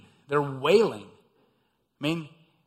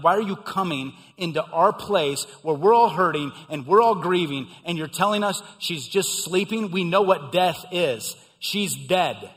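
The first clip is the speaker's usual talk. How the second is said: scornful mourners. Retold or imitated. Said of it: "that word means scorning him, mocking him".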